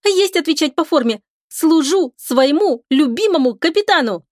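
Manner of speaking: high, crisp military report. A narrator's reading. Lika reports to her beloved captain, high crisp report. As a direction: rap it out like a keen sailor. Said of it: "Чётко на четыре выдоха отрапортовала Лика".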